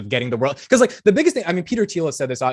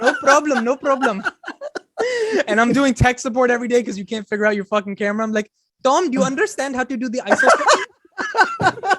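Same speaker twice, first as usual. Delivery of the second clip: high-pitched, cartoonish Indian accent; exaggerated Indian accent, pitched up; mock Indian accent; 11 semitones higher than usual. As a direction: play an Indian tech-support worker in a high voice. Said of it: "If you ask regular Indians".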